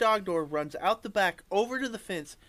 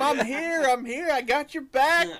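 rallying dog voice; 8 semitones higher, 6 dB louder than usual. Retold or imitated. Dog arriving to back up its packmate, high and loud. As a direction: rush in to back up your pack. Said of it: "dog rallying, voiced".

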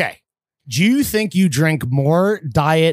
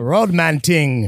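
put-on London roadman accent; much slower than usual. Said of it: "why we're talking in Man Dam accents".

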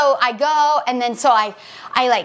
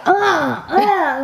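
imitated groan; 4 semitones higher than usual. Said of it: "crying and she's like".

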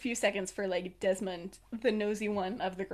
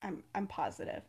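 quiet, intimate answer; hushed assurance; 2 semitones lower, 9 dB quieter than usual. Retold or imitated. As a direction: assure him under your breath.

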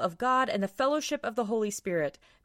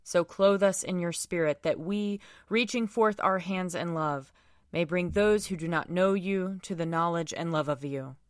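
solemn prayer. Acted. Leads prayers at a service.

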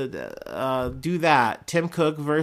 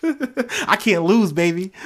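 slow, laughing, louder boast; laughing brag; 6 semitones higher, 4 dB louder than usual. Real, not acted. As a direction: gloat with a laugh. Bragging playfully.

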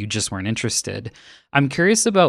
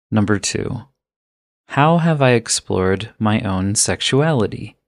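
ordinary talk

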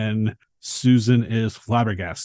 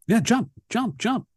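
higher, mock cheering kid; excited kid; 12 semitones higher than usual. Josh cheering Susan to jump, higher mock kid cheer. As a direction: cheer her on like a hyper child.

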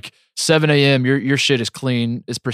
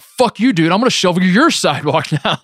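mock angry neighbor; 5 semitones higher than usual. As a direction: play a petty neighbor picking a fight. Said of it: "You're like".

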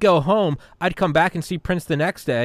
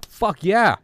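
mock eager cheer; 8 semitones higher, 4 dB louder than usual. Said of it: "You're like".

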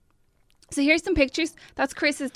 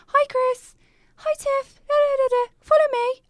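high, bright mock receptionist voice; high put-on hostess voice; chirpy hostess; 14 semitones higher than usual. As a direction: play the perky girl ushering them in. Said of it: "this girl came in and went".

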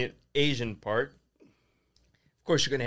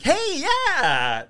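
put-on cheerful kid voice; 5 dB louder than usual.

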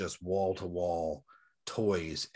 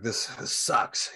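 a let-down murmur under the breath; drawn-out whispered this sucks; slow whispered gripe; slower than usual. Retold or imitated. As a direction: whisper it slowly and dejectedly. Disappointed at empty toy shelf.

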